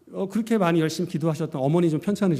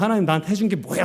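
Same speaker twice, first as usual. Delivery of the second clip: retold indignant outburst; reenacted angry protest; 2 semitones higher, faster than usual. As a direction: fire it off like an accusation. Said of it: "하면서 막 삿대질했다고".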